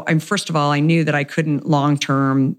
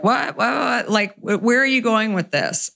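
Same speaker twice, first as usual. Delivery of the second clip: startled disbelief; 6 semitones higher than usual. Retold or imitated. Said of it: "he was like".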